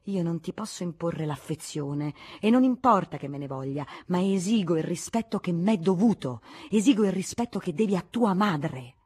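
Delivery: loud, stern father demanding respect; furious scolding. Acted. Prince scolding his silent son, loud and stern. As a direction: lay down the law to your son. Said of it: "durante la sfuriata del principe".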